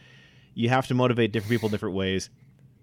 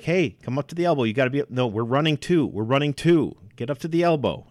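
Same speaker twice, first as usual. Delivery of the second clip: brisk, firm sideline call, a bit higher; instructive coach yell; 4 semitones higher than usual. Shown as a demonstration. Coach calling a play instruction to a player. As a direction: direct the player where to go. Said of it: "but yell like that".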